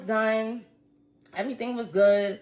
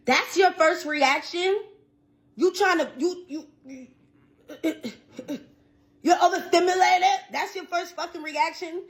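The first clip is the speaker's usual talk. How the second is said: outraged disbelief; 6 semitones higher than usual. Real, not acted. Fuming at his friend who walked out, outraged and incredulous. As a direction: let the outrage build on each question.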